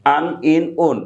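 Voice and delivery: "আন", "ইন", "উন" each a vowel closed by n; tanween endings. Shown as a demonstration. Teacher recapping tanween for learners, separate vowel-plus-n syllables. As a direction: sound out "আন", "ইন", "উন" separately. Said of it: "এইরকম ভাবে উচ্চারণ".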